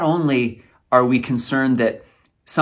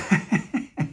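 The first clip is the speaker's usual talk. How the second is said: soft, breathy nervous laugh; quiet self-conscious chuckle; emotional laugh; 5 semitones higher, 5 dB quieter than usual. Real, not acted. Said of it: "getting a little emotional".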